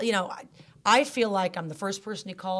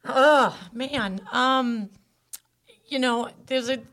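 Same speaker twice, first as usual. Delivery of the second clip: high and loud, on the edge of crying; choking up; 5 semitones higher, 6 dB louder, slower than usual. Real, not acted. Mother on the podcast tearing up about her son. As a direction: voice rising as tears come. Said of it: "I didn't wanna cry".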